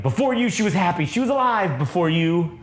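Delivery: mock berating, pitch lifted at the start; lightly acted tirade of a hateful father; acted angry father. Retelling father berating his child.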